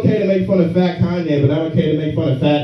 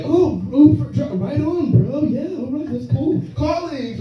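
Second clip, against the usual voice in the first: much higher, chirpy imitation of the lady; mock lady passenger; 12 semitones higher than usual. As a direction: gush like a clueless fan. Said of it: "she's just like".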